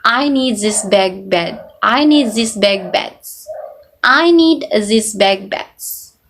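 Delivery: German English with devoiced, hissy endings; German accent, "zis beg bets". Shown as a demonstration. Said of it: "more breathy and have hissy".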